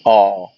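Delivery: آه with a slightly open vowel. Shown as a demonstration. Teacher showing the AW sound, آه slightly open. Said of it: "بس تكون مفتوحة شوية".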